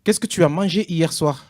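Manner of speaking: slow, carefully spelled-out question; slow and clear. Shown as a demonstration. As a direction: say it slowly for a bad line. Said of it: "J'entends rien".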